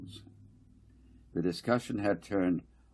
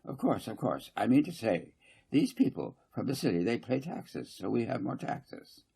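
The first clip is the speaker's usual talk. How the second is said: fussy councillor Garth; 4 semitones higher than usual. Acted. Garth lecturing the council, higher and insistent. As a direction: press the point, repeating I mean to say.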